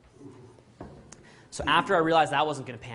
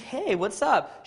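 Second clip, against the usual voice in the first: acting cool; 8 semitones higher, 3 dB louder, much slower than usual. Answering her call coolly.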